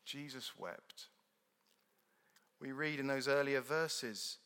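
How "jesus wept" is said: "Jesus wept" soft, slow, flat-toned weary oath; weary swearing. Retold or imitated. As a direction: sigh "Jesus wept" like a tired British curse. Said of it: "it's a term of swearing".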